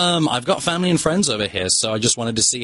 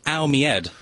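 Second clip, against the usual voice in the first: English dialect, "me" for my, H dropped on "head". Shown as a demonstration. Guest teaches host a phrase, English dialect. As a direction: drop the H of "head", English-style. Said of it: "Or you would say".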